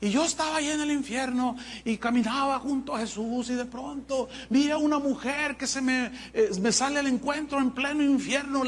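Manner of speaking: mildly hammed-up tale of horrors; young woman testifying. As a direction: imitate a girl earnestly recounting hell. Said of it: "una joven y dice".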